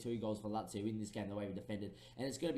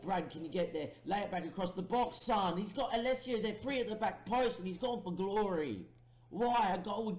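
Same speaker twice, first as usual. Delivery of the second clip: rising, much higher and louder yelling; frantic shouting; 9 semitones higher, 5 dB louder than usual. Real, not acted. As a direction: urge him on, then cry out in frustration. Urging a player, chance wasted.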